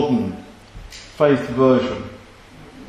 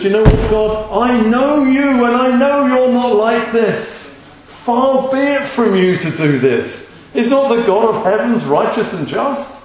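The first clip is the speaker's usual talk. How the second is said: higher, louder, slow and bold; Abraham standing up to God, higher and louder; bold Abraham pleading; 8 semitones higher, 4 dB louder than usual. Pretend. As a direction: confront God firmly but with trust. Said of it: "he's going actually there before the Lord".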